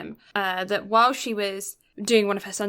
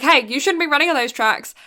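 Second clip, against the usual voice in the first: higher, louder scolding shout, retold; calling out; 5 semitones higher, 5 dB louder than usual. Onlookers to boy running on the tracks, calling out. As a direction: call after someone who is breaking rules.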